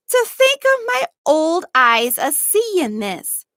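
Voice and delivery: lightly voiced old man, tender and amazed; old servant voice. A narrator's reading. Old Tom recognising the girl, a lightly voiced old man.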